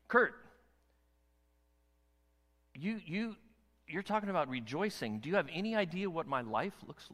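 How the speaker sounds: incredulous, mounting complaint; exasperated listener. Pretend. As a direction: fire the questions back at the preacher. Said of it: "all we gotta read to go".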